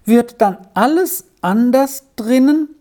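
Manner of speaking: put-on high, anxious boy's question; mildly acted quavering dread; trembling voice. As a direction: ask fearfully in a high child's voice. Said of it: "fragte er mit bebender Stimme weiter".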